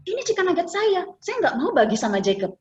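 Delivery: put-on high, childish stubborn father; a hint of a stubborn old man; quoting father. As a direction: act out the grandpa sulking over nuggets. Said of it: "Dia bilang".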